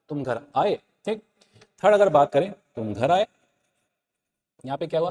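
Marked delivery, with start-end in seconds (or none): 0.1-0.7 "आए" lifted into a question; question intonation. Shown as a demonstration. Teacher repeats the example for students, questioning rise on "आए". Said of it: "question mark के रूप में". 2.7-3.3 "घर" dipped low, then "आए" swooping up; exclamation of surprise. Shown as a demonstration. Teacher demonstrates the exclamatory sentence, surprised tune dipping on "घर" and rising on "आए". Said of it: "यहाँ पे हो रहा है आश्चर्यबोधक".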